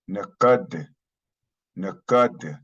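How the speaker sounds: Nakad with a falling tune; model pronunciation. Shown as a demonstration. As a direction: say "Nakad" slowly for learners. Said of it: "means mine".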